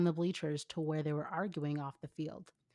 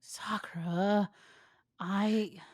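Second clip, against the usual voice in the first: whispered plea; 3 semitones higher, 3 dB louder, much slower than usual. Acted. Boyfriend pleading.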